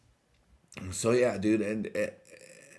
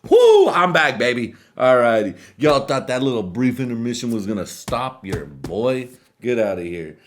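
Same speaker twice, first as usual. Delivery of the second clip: loud whooping comeback; hyped return; 5 semitones higher, 10 dB louder than usual. Real, not acted. Host back from a break, cheering at viewers. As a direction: shout it like you're back on stage.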